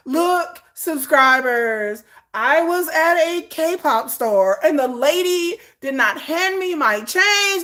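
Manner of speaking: high, slow, whiny put-on voice; mock vlogger. Mocking a vlogger telling subscribers, slow high whine. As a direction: drag it out like a self-pitying vlogger.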